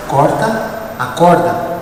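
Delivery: low, slow and soft; soft, gentle voice. Acted. Gentle voice to the climber on the rope, softly and slowly. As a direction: say it very gently, dropped well down. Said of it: "uma voz bem suave".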